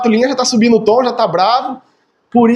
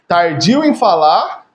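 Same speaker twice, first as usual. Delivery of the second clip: scripture quote; 2 semitones lower, slower than usual. Shown as a demonstration. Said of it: "diz assim".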